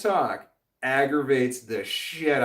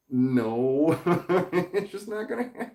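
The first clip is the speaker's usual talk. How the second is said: words squeezed high through laughter; laughing refusal; 6 semitones higher than usual. Real, not acted. Streamer asked to be a different person, laughing refusal. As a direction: refuse while cracking up.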